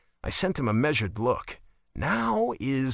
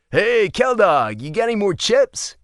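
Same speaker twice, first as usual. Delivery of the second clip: calling over shoulder; 8 semitones higher, 7 dB louder than usual. A narrator's reading. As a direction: call it out over your shoulder. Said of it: "he threw over his shoulder".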